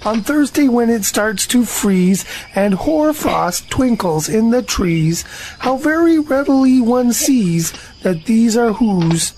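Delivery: sing-song poem recital; earnest poem recital; reciting a poem. Acted. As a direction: recite it like a proud little poet. Pooh recites his poem.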